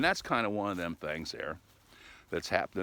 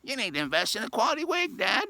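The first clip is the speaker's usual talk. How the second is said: said again much higher and louder; loud repeat; 6 dB louder than usual. Retold or imitated. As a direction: spell it out loud for someone who didn't catch it. Repeating it for a puzzled father.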